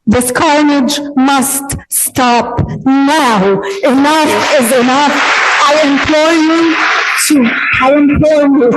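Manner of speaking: slow, emphatic, rising in pitch; impassioned plea. Real, not acted. Impassioned closing plea to the council.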